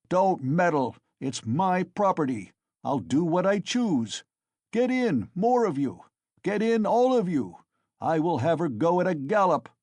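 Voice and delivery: high, loud furious shouting; drunken defiance. Acted. Mikolka defying the crowd over his property, loud furious shouting. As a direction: hurl it back at the crowd.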